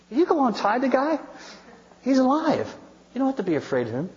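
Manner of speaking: high-pitched comic alarm; hammed-up nervous squeak of a question; mock scared. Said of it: "they were scared to death".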